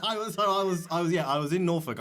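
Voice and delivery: laughing admission. Real, not acted. Comic jokingly confessing to host, laughing. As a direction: own it through laughter.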